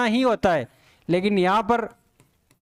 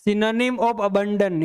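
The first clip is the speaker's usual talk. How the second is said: slow dictation; much slower than usual. Shown as a demonstration. Reading out the exam question.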